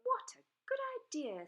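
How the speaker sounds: high fast delighted dragon; excited Zog. A narrator's reading. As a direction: burst out gleefully. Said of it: "said Zog".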